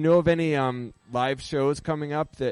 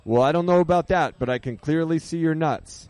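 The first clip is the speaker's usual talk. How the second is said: lightly acted doctor, higher-pitched; joke doctor; 4 semitones higher than usual. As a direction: deliver the doctor's punchline a little pushed and higher. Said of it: "And the doctor says".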